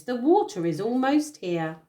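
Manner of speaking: a hint of the giraffe's squeak; squeaky giraffe. Giraffe urging the animals on, slightly high squeak. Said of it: "he squeaked in a high voice".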